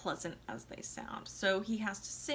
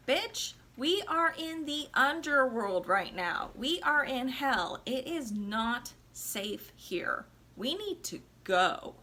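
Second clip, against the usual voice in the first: slow, firm and a bit louder; firm scolding; 3 semitones higher, 3 dB louder, slower than usual. Retold or imitated. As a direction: lay down the law to his nagging wife. Husband urging wife out of hell.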